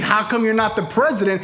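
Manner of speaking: worked-up quote of the father; impassioned quoting. Retold or imitated. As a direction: quote it back as a mistaken reading. Friend quotes father, correcting him.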